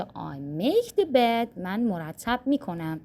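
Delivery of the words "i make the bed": slow, clear English model; slow model sentence. Shown as a demonstration. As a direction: spell it out slowly for learners. (آهسته و شمرده)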